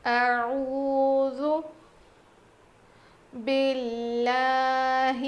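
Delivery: slow, melodic tilawat; slow chanted tilawat; Quranic recitation. Acted. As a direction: draw the verse out in melodic recitation.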